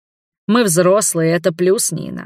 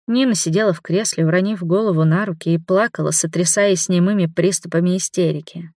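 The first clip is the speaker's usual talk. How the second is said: ordinary delivery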